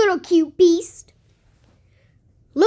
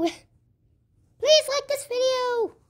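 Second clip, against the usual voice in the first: slow pleading; 6 semitones higher, much slower than usual. Real, not acted. Slow pleading request to viewers.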